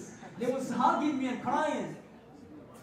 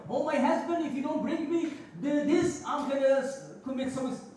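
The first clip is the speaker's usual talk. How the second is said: mock demanding wife; 3 semitones higher than usual.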